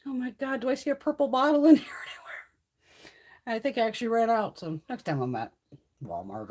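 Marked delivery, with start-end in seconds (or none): 0.0-3.6 breathy mock whisper, higher and slower; hushed half-laughing whisper while searching; whispered self-quote. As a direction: hush it like you're sneaking a peek. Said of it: "I'm like".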